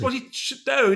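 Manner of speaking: loud high squawk of disbelief; mock flatmate's shocked question; disbelieving what. Flatmate hearing a famous singer is downstairs, loud high disbelief.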